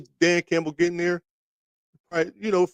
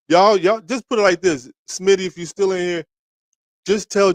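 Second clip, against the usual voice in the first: calling out; 3 semitones higher, 5 dB louder than usual. Real, not acted. Calling out to the chat.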